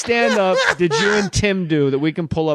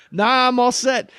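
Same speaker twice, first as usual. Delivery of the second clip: higher, slow cocky brush-off; 8 semitones higher, slower than usual. Retold or imitated. Actor in waiting room, slow cocky brush-off. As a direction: wave them off like a cocky jerk. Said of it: "I'm like a cocky asshole".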